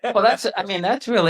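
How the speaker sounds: words through a chuckle; a real laugh carried into the words. Real, not acted. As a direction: talk while still laughing. Still amused after the laugh.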